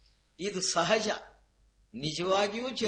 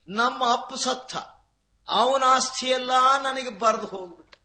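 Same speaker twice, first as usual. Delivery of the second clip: higher, louder imitated lament; mock wailing; 6 semitones higher, 4 dB louder than usual.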